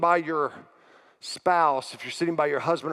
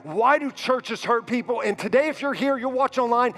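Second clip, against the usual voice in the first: raised, pressing preacher's voice, building emotion; preaching at full force; 5 semitones higher than usual. Acted. Pastor confessing shame and anger to the church, preaching hard. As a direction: pour it out to the congregation, urgent and higher.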